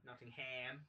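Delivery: Nottingham echoed as Notting-HAM, rising; low mocking echo of Nottingham with a full "ham"; mispronounced Nottingham. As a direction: say Nottingham with the last syllable as "ham". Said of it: "keep pronouncing Nottingham as Nottingham".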